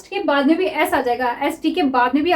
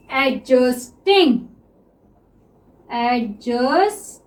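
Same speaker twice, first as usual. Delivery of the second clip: stretched very slowly while writing; drawn-out word; 3 semitones lower, much slower than usual. Shown as a demonstration. Teacher writing shorthand for students, word stretched slowly. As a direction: draw the word out as you write it. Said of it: "teacher sounds the word out while writing".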